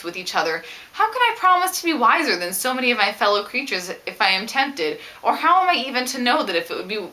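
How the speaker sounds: lightly voiced Elizabeth, reading the passage with feeling; reading a novel aloud. Reads Elizabeth's letter aloud.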